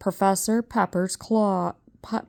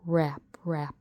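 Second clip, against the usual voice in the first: whispered knocking sounds; 2 semitones lower, 5 dB quieter than usual. A narrator's reading. Narrator whispers the knocks from the coffin. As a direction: hush the raps.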